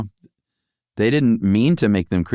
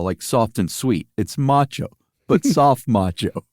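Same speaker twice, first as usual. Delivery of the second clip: lightly voiced toy executive, pitched a little up; a hint of a salesman defending his product; marketing executive quote; 3 semitones higher than usual. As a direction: read it as an earnest company pitchman. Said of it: "Hasbro Senior Vice President of Marketing".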